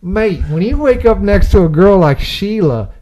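hammed-up Australian Wolverine voice; Hugh Jackman impression. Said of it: "This is what Hugh Jackman said".

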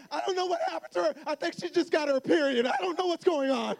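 high, hurried comic bewilderment; frazzled dad. Retold or imitated. Dad explains daughter to wife, acted-out exasperation. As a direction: act out a father at his wits' end.

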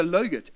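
"logurt" said with L for Y; imitated mispronunciation. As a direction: copy the child's "logurt", L at the start. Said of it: "No, not logurt".

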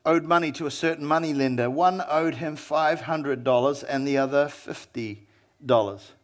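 a patient teacher telling a parable; a hint of Jesus speaking gently and low; lightly voiced Jesus. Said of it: "And Jesus said this, he said".

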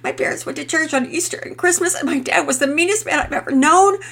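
high, loud, tearful pleading confession; emotional breakdown. Acted. Mother confessing her fault to neighbour, tearful and pleading. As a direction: pour it out on the edge of sobbing. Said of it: "trailed off in emotion".

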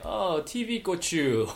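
high, slow imitation of a little kid; Connor's catchphrase. Mimicking a child's new favorite word, high kid voice. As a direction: draw it out like a child. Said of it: "So he'll just be like".

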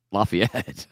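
Lafayette said LAH-fee-et, Louisiana way; local Lafayette. Retold or imitated. Mimicking the local Lafayette to friends. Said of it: "sounded like he was someone that lives in".

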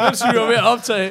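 laughing through the words; can't stop laughing. Real, not acted. Laughing at the coincidence.

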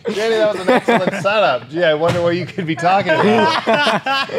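sarcastic. Acted. Mock praise of a setup.

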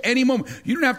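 a soaring preacher's call; preaching cry. Real, not acted. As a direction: ring it out from the pulpit. Preacher builds to climax.

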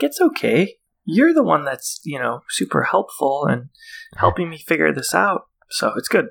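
lightly voiced sweet, encouraging mom; super nice mom. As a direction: imitate a mom being kindly reassuring. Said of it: "it's worse 'cause she's super nice".

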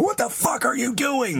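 high, slow mock confrontation; imagine barking it at her door. Imagined confronting parked neighbor.

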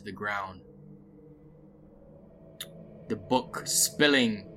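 measured storytelling with dramatic breaks; game master's narration. Acted. Game master tells players of the stray pig, narrated. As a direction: set the scene phrase by phrase, pausing between.

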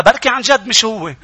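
laughing through a cheeky excuse. Retold or imitated. Preacher retelling the comic show's pupil, laughing. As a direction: say it with a laugh, mocking. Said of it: "قال لها".

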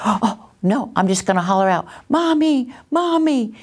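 put-on high child voice calling out for mommy. Acting child calling for mom.

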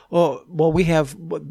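caught-out woman fumbling, hammed up; mock flustered woman. Mimicking her flustered answer.

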